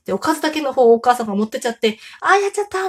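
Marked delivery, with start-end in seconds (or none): 2.2-2.9 mock dismay. Busy mother realizes her mistake.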